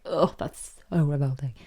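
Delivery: mock disgusted groan into words; playing at being revolted. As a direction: recoil with an acted "ugh". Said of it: "Disgust touches it, she's like".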